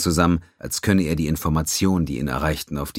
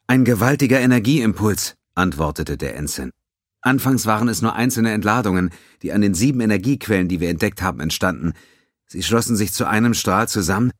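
higher, louder tense report; urgent young officer; 4 semitones higher, 4 dB louder than usual. Acted. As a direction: report damage under pressure. Ensign voice.

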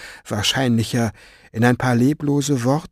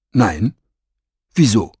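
offended; 4 dB louder than usual. A narrator's reading. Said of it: "Oz' Stimme klang beleidigt".

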